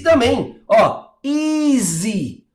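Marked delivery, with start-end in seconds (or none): 1.2-2.5 "easy" stretched very slowly; slow-motion "easy" for learners; drawn-out demonstration. Shown as a demonstration. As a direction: say "easy" long and joined as one smooth sound. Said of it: "Eu fecho em uma sílaba só".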